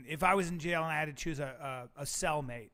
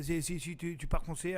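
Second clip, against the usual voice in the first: lightly put-on French accent; demonstrated French. Shown as a demonstration. Host shows the guest how to do French, French accent. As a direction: speak French forward in the mouth. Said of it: "When you do French".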